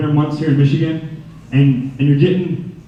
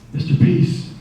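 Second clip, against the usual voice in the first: raspy cat voice; slower than usual. Acted. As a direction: breathe it out like a mysterious talking cat. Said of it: "raspy voice".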